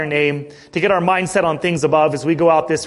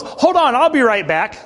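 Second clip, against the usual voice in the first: put-on higher, eager little-girl voice on "Hold on"; 6 semitones higher than usual. Pastor imitating daughter Reagan leaving to fetch something, higher girl voice. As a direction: pipe it up like his small daughter.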